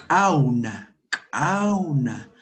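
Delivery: "Cauna" with the first c popped far back in the throat; postvelar CAUNA. Shown as a demonstration. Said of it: "Es al fondo con".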